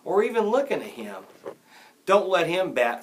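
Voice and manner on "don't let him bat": raised, higher voice; heckler's shout. A narrator's reading. Someone heckles the Dodgers player, shouting. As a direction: call it out loudly. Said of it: "someone shouted".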